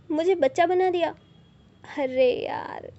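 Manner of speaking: put-on shocked cry at being called a kid; indignant outburst. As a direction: blurt it out, stung and indignant. Aadya outraged at being called child.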